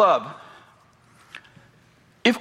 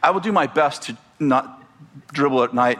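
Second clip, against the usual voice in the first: lower-pitched, mildly contrite retelling; kind apology; 5 semitones lower than usual. Retold or imitated. Preacher recalls placating the neighbor who yelled, mildly kind. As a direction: replay a polite, kindly apology. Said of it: "I was very kind to her".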